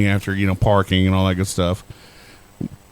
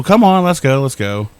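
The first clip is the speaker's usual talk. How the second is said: gung-ho; 3 semitones higher than usual. Retold or imitated. Companion urging the nervous storyteller onto the escalator, gung-ho. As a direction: imitate an eager companion hurrying you along. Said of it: "Ashley's just like gung-ho".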